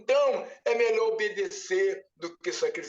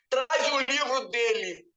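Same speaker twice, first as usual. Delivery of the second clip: echoing command; 2 semitones higher than usual. Retold or imitated. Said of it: "Ecoou o céu".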